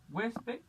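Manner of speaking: huésped pitched high, HUÉS-ped; stress on penultimate syllable. Shown as a demonstration. Teacher repeating the example, huésped stressed on HUÉS. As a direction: lift huésped, leaning on HUÉS. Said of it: "la sílaba tónica en la".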